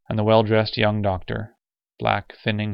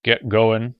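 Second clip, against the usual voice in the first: a touch of menace, louder; ominous order; 2 semitones higher, 5 dB louder than usual. Acted. Cop stops two altereds, ominous order. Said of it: "he ordered ominously".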